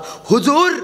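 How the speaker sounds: high, slow Hindi spy report. Acted. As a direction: drawl it out to the emperor. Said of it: "म्हणाला".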